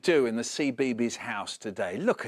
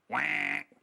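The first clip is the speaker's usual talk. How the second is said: tired duck quack; 3 dB quieter than usual. Acted. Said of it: "The duck answered".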